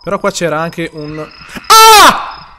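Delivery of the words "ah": sudden high shriek of fright; startled scream. Real, not acted. Streamer jolted by a screaming monster, shrieks in fright. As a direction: jump out of your skin and yelp.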